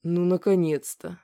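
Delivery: slow sigh of relief; relieved exhale. Acted. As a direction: breathe it out slowly in relief. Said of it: "выдохнул Вадим".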